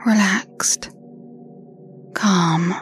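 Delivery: right in your ear. Acted. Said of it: "the sound of my voice in your ears".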